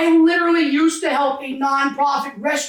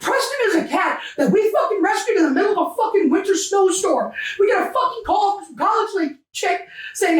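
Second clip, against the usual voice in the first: real agitated, higher-pitched recounting; getting emotional; 5 semitones higher than usual. Real, not acted. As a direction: tell it worked up, struggling to rein it in. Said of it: "I'm sorry if I'm getting emotional".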